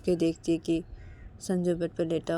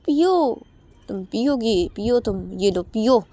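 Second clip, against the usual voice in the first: much higher and louder, shouting angrily; furious taunt; 8 semitones higher, 10 dB louder than usual. Acted. Uma angrily shouts at Sanju to smoke. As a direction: yell at him to go on and smoke then. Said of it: "तो तभी उमा बोलती".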